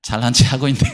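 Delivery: low mock grumble to oneself; low-voiced inner sneer, acted out; imagined inward grumble. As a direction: imitate a critic's private thought, pitched low. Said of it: "좀 마음속으로".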